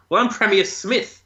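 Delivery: high, smug comeback; insistent retort. Retold or imitated. Premier Smith answers the real Premier, high and smug. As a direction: lift it up, indignant.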